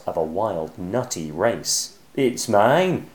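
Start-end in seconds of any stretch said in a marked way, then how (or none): 2.1-3.1 shouted. Acted. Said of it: "shouted Cyril".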